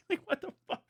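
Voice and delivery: high squeaky what-the-fuck; squeaky disbelief. Retold or imitated. Mocking a fan, high squeaky disbelief. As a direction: squeak it in mock shock.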